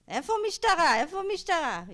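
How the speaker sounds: high, loud demand in Hebrew; agitated man shouting. Retold or imitated. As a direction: call out urgently, indignant. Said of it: "the man says".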